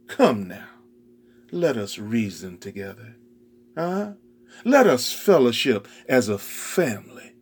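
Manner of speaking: pleading father. Acted. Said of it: "So he pleaded with the older son".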